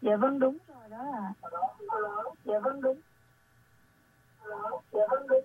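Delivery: delayed radio echo of the host; faint echo through a radio; last word echo. Real, not acted. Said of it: "cái tiếng vang nó làm cho Thảo My không nghe được".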